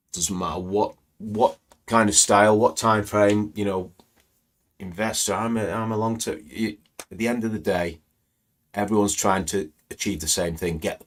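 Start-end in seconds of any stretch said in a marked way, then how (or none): none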